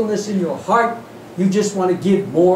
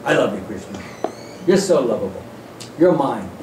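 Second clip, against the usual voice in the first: lower, syrupy mock devotion; mock sentimental gush; 8 semitones lower than usual. Mock devotee gushing lower, sentimental love to Krishna. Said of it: "your feeling is not".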